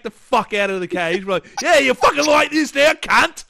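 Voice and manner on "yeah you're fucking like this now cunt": high, loud jeering yell; hammed-up vengeful hollering; mock angry taunt. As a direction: shout it at the imagined brat. Taunting the imagined caged child.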